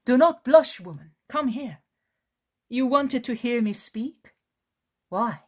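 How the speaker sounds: a kindly teacher asking politely; Jesus voiced. Jesus speaks to woman.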